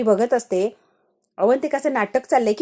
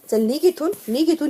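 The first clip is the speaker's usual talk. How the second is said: higher-pitched mock dismissal; indignant retold order, mildly raised; retold yelling; 5 semitones higher than usual. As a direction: imitate being shouted out of the room. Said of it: "ते मला ओरडल्या".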